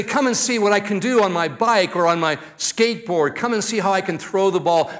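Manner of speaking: mildly acted childlike enthusiasm; excited grandchild. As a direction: imitate a child wanting an audience. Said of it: "They get so excited".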